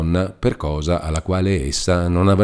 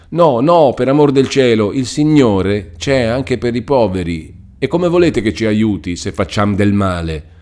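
high, louder pleading; pleading cry; 5 semitones higher, 5 dB louder than usual. A narrator's reading. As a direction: implore him, then calm into reasoning. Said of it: "gridò Lucia".

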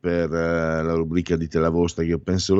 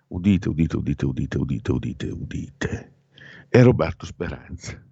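town crier; 3 semitones lower than usual. Acted. Announcing the surprise winner.

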